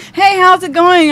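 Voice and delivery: imitating friends' bright hello; mock-cheery friends. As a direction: mimic the oblivious cheerful hello.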